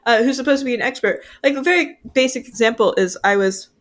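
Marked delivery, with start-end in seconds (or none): 1.4-3.7 talking while chewing a cookie; words round a bite of cookie; mouth full of cookie. Real, not acted. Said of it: "sorry, I'm eating a cookie right now".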